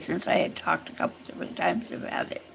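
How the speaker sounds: hoarse, failing voice; losing voice. Real, not acted. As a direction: voice giving out, fast and soft. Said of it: "Sorry, I'm losing my voice again".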